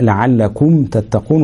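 slow "لعلكم تتقون" with a distinct m before t; clear meem. Shown as a demonstration. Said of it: "ويسمى إظهارا شفويا".

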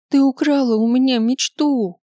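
cracking tearful heartbreak; sobbing shout. A narrator's reading. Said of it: "крикнула она, всхлипывая и задыхаясь".

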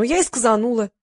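plain reading voice

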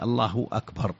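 "الله أكبر" with a glottal stop starting "أكبر"; cut hamza. Shown as a demonstration. Sheikh stating the correct formula, "أكبر" starting on a clean hamza. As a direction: say "Allahu akbar", no w before "أكبر". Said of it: "وأكبر الهمزة مقطوعة".

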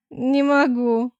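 through loud slow laughter; can't stop laughing. Acted. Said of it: "расхохоталась Клариса". (сквозь хохот)

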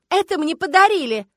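высокий громкий выкрик; отбейся от обвинения; возмущённо. Acted. Ссора, дама оправдывается. (возмущённый выкрик)

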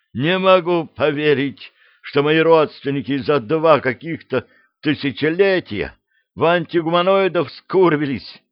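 a fussing little devil in a panic; flustered devil. Acted. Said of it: "суматошный голос чёрта".

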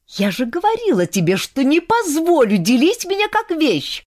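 high, rising indignant protest; young woman losing her temper; getting heated. A narrator's reading. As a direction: flare up at them. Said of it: "Ольга начала заводиться".

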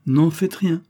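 put-on a child's anxious entreaty; pleading. A narrator's reading. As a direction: beg them not to do it. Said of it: "ce ton de supplication".

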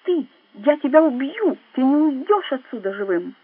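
enraged death threat; furious threat. A narrator's reading. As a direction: colonel shouting that he will kill him. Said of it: "гневно начал он".

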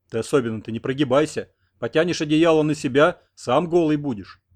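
ordinary delivery, nothing marked

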